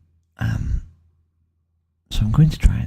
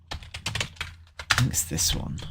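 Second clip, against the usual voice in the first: whispered slowly to herself; 3 semitones lower, 9 dB quieter, much slower than usual. Real, not acted. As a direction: murmur it slowly, unvoiced. Repeats line softly to herself.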